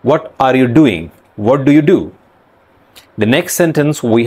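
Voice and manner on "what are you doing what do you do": rounded-lip Indian pronunciation; Indian accent. Shown as a demonstration. Teacher demonstrating the rounded sound, Indian accent. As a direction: Indian English with firm, rounded vowels. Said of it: "They make their lips rounded".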